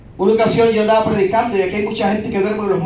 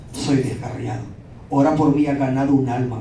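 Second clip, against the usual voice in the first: tearful plea; 8 semitones lower, 3 dB quieter than usual. Retold or imitated. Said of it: "se puso a llorar".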